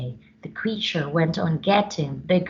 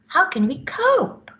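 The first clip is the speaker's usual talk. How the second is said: high despairing wail; desperate Bella; 12 semitones higher than usual. Acted. Bella at her wits' end over elephant. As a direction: throw it up in despair. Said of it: "said Bella".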